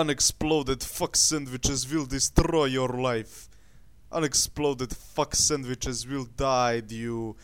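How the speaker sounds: put-on Russian accent in broken English; mock Russian accent. Ranting at unexploded sandwiches in a mock Russian accent. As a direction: rant like a hammed-up Russian. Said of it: "I need more Russian in my accent".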